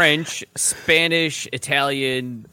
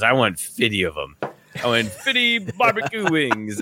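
imitated French accent. Podcaster mimics Giannis ordering fifty wings, imitated French accent. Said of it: "you doing the accent".

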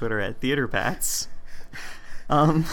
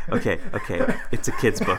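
laughing; 5 semitones lower than usual. Real, not acted. Laughs with relief.

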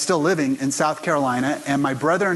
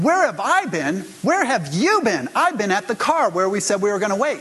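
indignant retort; 5 semitones higher than usual. Retold or imitated. Son answering his mother's accusation, indignant raised retort. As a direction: fire the question back in disbelief.

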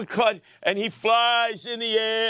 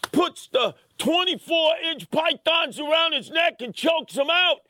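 higher, punching out the big finish; hyped climax; 6 semitones higher than usual. Retold or imitated. Describing Sam choking out the driver, hyped. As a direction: sell the chokehold like a ring announcer.

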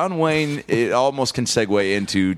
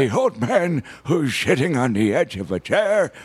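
put-on old man voice; 5 semitones higher than usual. Shown as a demonstration. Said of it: "when I do an old man voice".

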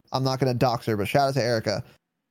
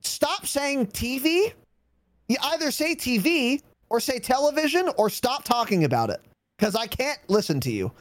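higher, slowed exasperated scolding; mock-furious telling-off, pitched up; retold exasperation; 7 semitones higher than usual. Scolding a friend over how she says TV, retold exasperation. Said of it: "this made me fucking furious".

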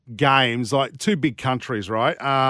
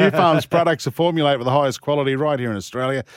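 ad read; 2 semitones higher than usual. Acted. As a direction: read it as a sponsor spot. Live radio ad read.

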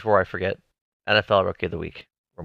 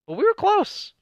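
much higher, big wrestler boast; wrestling promo. Pretend. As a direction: sell it like The Rock on the mic. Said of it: "I'm doing a wrestling promo".

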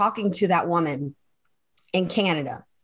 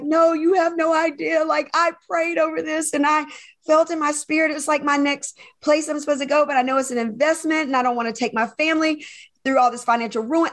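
higher-pitched, overwhelmed pleading; retold tearful protest; 5 semitones higher than usual. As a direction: re-enact an upset plea, voice pitched up. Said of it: "I started crying".

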